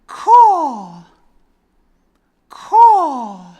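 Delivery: high loud caws fading off; trailing caw. Pretend. Crow demonstrating ellipses, trailing caws. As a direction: caw and let it trail away. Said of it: "the ellipses".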